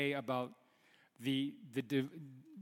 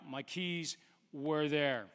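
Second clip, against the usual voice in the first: laughing; 3 semitones lower, much slower than usual. Real, not acted. Laughing at finding the keys.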